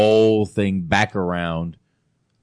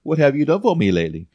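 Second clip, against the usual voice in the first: quoting sassy line; 7 semitones higher, faster than usual. Retold or imitated. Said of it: "There you go".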